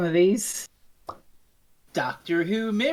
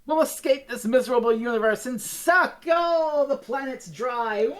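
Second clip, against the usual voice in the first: sneering panto villain; 4 semitones higher than usual. Retold or imitated. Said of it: "chewing the scenery hard".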